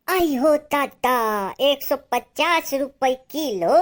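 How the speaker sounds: high, loud, drawn-out disbelief; shocked at price. Acted. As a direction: exclaim slowly in acted outrage at the cost.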